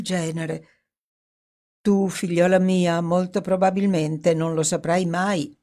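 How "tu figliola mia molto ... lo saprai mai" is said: teasing tone. Acted. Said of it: "in tono faceto".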